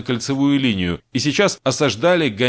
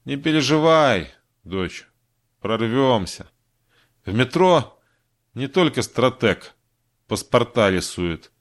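reassuring; slower than usual. Acted. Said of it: "ободряюще подмигнула".

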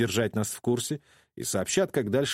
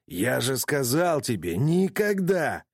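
angry threat; 3 semitones higher, slower than usual. Acted. Kyle threatens with raised fist.

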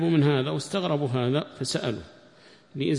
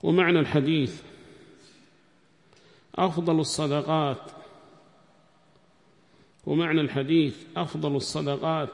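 teacher's dictation. Real, not acted. Dictates explanation to students.

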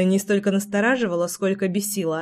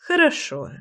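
higher, smiling okay; 7 semitones higher than usual. A narrator's reading. Brother agrees with a smile, smiling. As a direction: let the smile into the word. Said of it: "улыбнулся Мортан".

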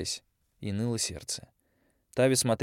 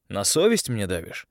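a touch of aggressive challenge, voice pushed a bit louder; aggressive question; 5 dB louder than usual. Acted. Young man to girl, mildly aggressive challenge. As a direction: press back at her with mild hostility. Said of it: "агрессивно спросил Андрей".

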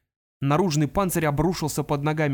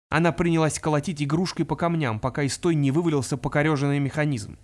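usual speaking voice

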